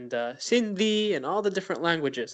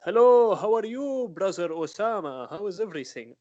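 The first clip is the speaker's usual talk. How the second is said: mock Arab accent; 3 semitones higher than usual. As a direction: greet like someone mimicking an Arab accent. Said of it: "the accent and the accent mimicking".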